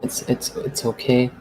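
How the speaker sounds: soft, gentle comfort; calm her down quietly; reassuring softly. Acted. Reassuring a frightened girl.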